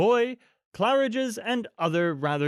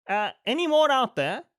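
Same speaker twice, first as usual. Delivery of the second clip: raised, high call out into the dark; calling into the night; 10 semitones higher, 3 dB louder than usual. A narrator's reading. Mister Dearly calls outside into snowy night, high raised call. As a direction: call out to check for stragglers. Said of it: "called into the night".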